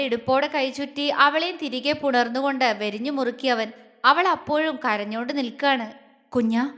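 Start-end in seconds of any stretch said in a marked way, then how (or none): 6.3-6.7 tender. Acted. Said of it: "ആർദ്രമായി അവളെ വിളിച്ചു".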